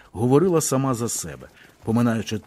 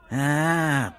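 drawn out; 3 semitones higher than usual. A narrator's reading. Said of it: "протяг Роман".

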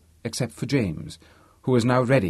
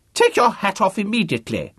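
put-on high, loud booming old academic; pompous old Vice-Chancellor; 10 semitones higher, 4 dB louder than usual. The speaker impersonating a Vice-Chancellor to Harvey, booming. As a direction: play the grand deaf old don, full volume. He orders chauffeur in role.

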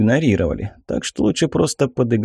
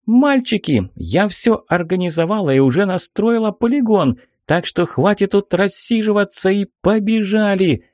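put-on high-pitched girl's excited call; 10 semitones higher than usual. A narrator's reading. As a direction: call the boys to get moving. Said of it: "крикнула нам".

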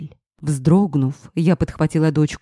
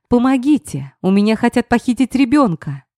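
cry for help; 7 semitones higher than usual. Acted. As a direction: call out to the police car in panic. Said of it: "не своим голосом закричала я".

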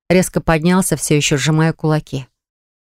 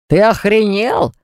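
yell; 3 semitones higher, slower than usual. A narrator's reading. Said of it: "заорал Баграт".

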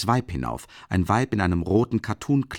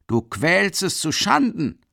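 high, slow accusing yell; shouting; 9 semitones higher, 4 dB louder, slower than usual. A narrator's reading. Third onlooker shouting at Mikolka, accusing. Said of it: "schreit ein dritter".

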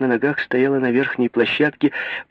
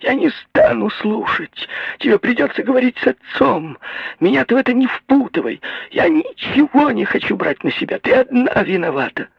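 howling; 11 semitones higher than usual. A narrator's reading. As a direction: shriek the refusal at her daughter. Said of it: "вопила мать".

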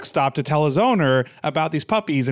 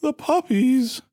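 high, slow plaintive voice; pitiful hurt dog; 12 semitones higher, slower than usual. Acted. Injured dog asking after the puppies, pitiful. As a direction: drag it out weakly, pitched way up.

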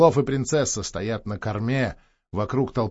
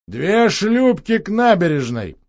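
louder, higher, slow command; brisk order; 6 semitones higher, 5 dB louder than usual. Acted. Orlov ordering Christinek to send boats. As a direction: bark the order out. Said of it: "Орлов приказал Христинику".

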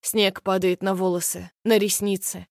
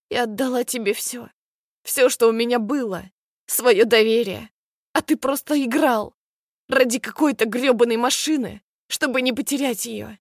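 higher, tearful lament; sobbing; 3 semitones higher than usual. Acted. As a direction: choke the words out through sobs. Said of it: "я задыхаюсь от рыданий". (сквозь рыдания, выше обычного)

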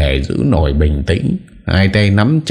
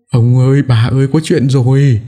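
shouting; 9 semitones higher than usual. Acted. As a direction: burst in calling for the master and mistress. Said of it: "Nó vừa chạy vừa hét".

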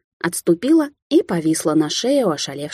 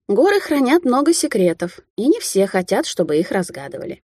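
profound; 4 semitones higher than usual. Acted. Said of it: "глубокомысленно изрекла Алисия".

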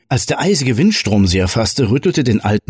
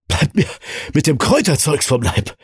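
wheezing; 7 semitones higher than usual. A narrator's reading. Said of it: "protestierte er keuchend".

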